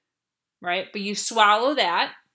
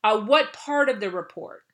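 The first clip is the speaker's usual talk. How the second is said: high, eager yes to the boss; chirpy, willing reply that takes back control; eager to help; 3 semitones higher than usual. Shown as a demonstration. Employee answering a critical boss, high and eager. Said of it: "Take back control and say".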